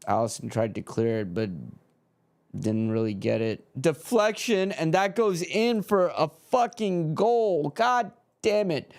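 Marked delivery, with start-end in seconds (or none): 3.8-7.7 higher, bitter cry at the goal; a fan watching the late goal go in; disgusted outburst. Real, not acted. 7.7-8.9 higher, bitter "God damn it"; a fan cursing the conceded goal; frustrated curse. Real, not acted.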